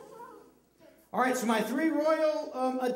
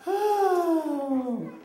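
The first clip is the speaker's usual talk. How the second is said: mock yawn; 4 semitones higher than usual. Shown as a demonstration. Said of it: "act like he's bored and yawning".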